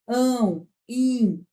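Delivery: "Ão, im" each held as a nasal sound; nasalized vowels. Shown as a demonstration. Teacher listing examples of nasalization, nasal "Ão, im". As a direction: send "Ão" and "im" through the nose. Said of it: "Isso é nasalização".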